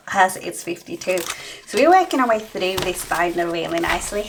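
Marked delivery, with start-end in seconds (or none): 1.7-4.3 winded, talking between breaths; puffing after running upstairs. Real, not acted. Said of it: "I'm out of breath".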